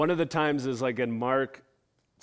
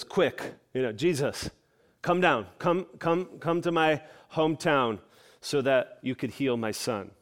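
urgent plea. Retold or imitated. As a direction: press him to hurry, like a desperate father. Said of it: "You can feel the urgency in his voice".

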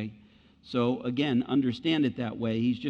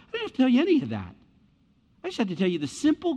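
emphatic; 9 semitones higher, faster than usual. Real, not acted. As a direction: drive it home with fervor. Preaching emphatically.

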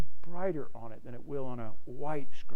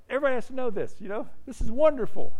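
high-pitched, thrilled exclamation; mock-gushing delight, high voice; gushing excitement; 10 semitones higher, much faster than usual. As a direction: act out an overjoyed believer, pitched way up. Acting out evangelicals thrilled at conversion.

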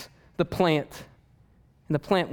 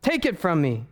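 mock despairing Jonah; 4 semitones higher than usual. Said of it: "he asks God again".

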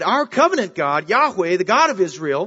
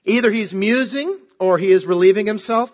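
higher, louder sarcastic jeer; mocking taunt; 4 semitones higher, 4 dB louder than usual. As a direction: taunt them like Elijah mocking false prophets. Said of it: "Elijah mocked them".

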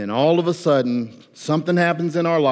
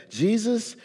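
earnest prayer. Retold or imitated. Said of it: "He didn't say anything close to that".

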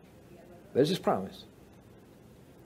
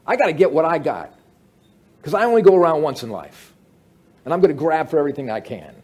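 greedy self-talk; 5 dB louder, faster than usual. Retold or imitated. Quoting greedy commercial mindset.

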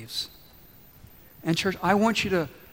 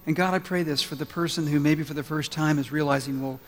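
lower, hushed pastoral prayer; leading prayer; 3 semitones lower than usual. Real, not acted. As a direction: pray gently over the congregation, keeping the pitch low. Leads the congregation in prayer.

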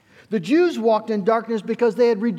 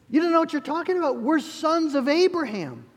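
higher, fast scoffing brush-off; dismissive retort; 6 semitones higher than usual. Retold or imitated. Religious leaders brushing off Jesus, fast and mocking. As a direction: rattle it off like a smug leader. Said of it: "they would say".

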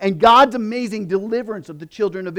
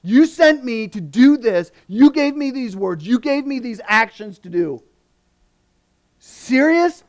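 higher, louder incredulous complaint; exasperated disbelief; 5 semitones higher, 4 dB louder than usual. Retold or imitated. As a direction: act out Moses scolding God in disbelief. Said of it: "Moses is going".

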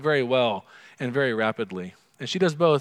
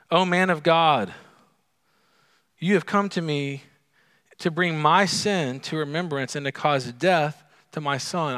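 raised, louder accusing plea to the prophet; harsh accusing widow; 4 semitones higher, 4 dB louder than usual. Acted. Grieving widow accusing Elijah, in a raised harsh voice. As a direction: throw the blame at him, voice lifted high. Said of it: "It sounds so harsh".

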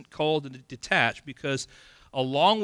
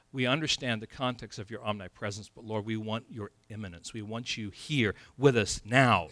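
1 hushed prayer; 5 semitones lower, 6 dB quieter than usual. Shown as a demonstration. Voicing a prayer example.

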